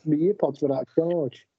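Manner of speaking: distant, echoey phone mic; like talking from a cave; sounding far away. Real, not acted. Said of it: "You sound like you've gone very far away".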